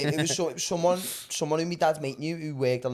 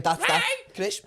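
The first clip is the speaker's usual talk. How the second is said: very high squeaky teasing; high mock voice jibe at the producer; mock squeak; 3 dB louder, slower than usual. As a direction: squeak his name high to tease.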